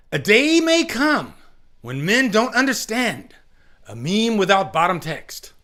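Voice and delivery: high, slow heroic speech to the troops; rally the army like a king at the Black Gate; Aragorn impersonation. Pretend. Streamer doing Aragorn for the chat, high and slow. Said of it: "Let me see if I can do my best, um, Aragorn impersonation".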